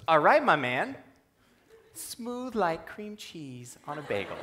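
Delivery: put-on high, playful Romanian accent, slowing at the end; thick Romanian accent. Romanian coach praises student's first lunge, playful thick accent. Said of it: "he says in this very thick accent".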